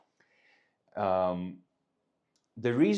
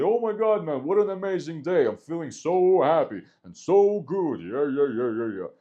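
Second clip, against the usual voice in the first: high, loud, overexcited gushing; hammed-up happy shouting to a friend; really loud; 6 semitones higher, 8 dB louder than usual. Shown as a demonstration. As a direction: gush loudly so she notices you. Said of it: "you can speak really loudly".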